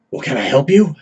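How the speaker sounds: quick rasp as the carny asks a customer; quick raspy woman. Acted. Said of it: "quick and raspy sort of voice".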